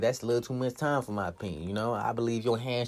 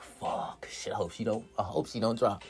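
anxious whisper; 2 semitones lower, 8 dB quieter than usual. Retold or imitated. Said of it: "I'll be over there like".

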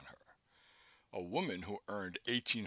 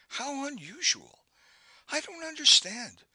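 amazed; 7 dB louder than usual. A narrator's reading. Maude amazed.

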